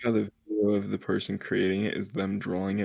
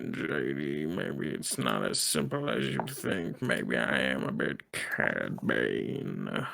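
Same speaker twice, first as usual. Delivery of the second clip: low voice changer; 8 semitones lower, 6 dB quieter, slower than usual. Pretend.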